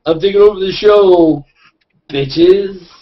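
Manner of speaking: belted-out cocky announcement; brash takeover announcement. Acted. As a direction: announce it big and high, like seizing the show. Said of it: "I'll just have Brian McDonald go like".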